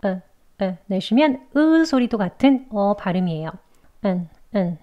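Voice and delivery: "으" as a brief, weak schwa; quick relaxed "uh" for "으"; short weak schwa. Shown as a demonstration. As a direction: let "으" out short and unstressed. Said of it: "짧게 약하게 어라고".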